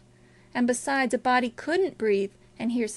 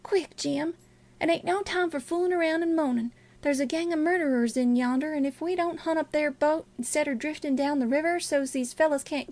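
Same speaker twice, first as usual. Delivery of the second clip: hurried plea, lightly raised pitch; urgent boy; 4 semitones higher than usual. Acted. Boy warning Jim of murderers, mildly urgent. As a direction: press a friend to act, a touch breathless with urgency. Voices Huck urging Jim on.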